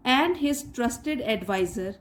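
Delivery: very slow reading, stopping after "advisor"; pause at comma. Shown as a demonstration. Teacher shows learners to stop at the comma, slow reading. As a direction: read "and his trusted advisor" slowly, then halt. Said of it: "तो यहाँ पे रुकना है".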